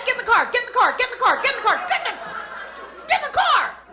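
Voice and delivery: tired mom repeating the order over and over; weary nagging mom. Retold or imitated. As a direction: drone it like the hundredth time.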